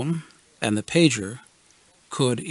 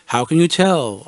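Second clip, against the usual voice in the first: wondering; 2 semitones higher, 3 dB louder than usual. Retold or imitated. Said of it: "I wondered aloud".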